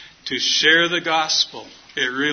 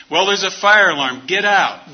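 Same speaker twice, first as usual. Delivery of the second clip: raised voice, telling them to get out; calling out; 3 semitones higher, 6 dB louder than usual. Retold or imitated. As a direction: call it down the hallway, louder. Calling out to cabin doors.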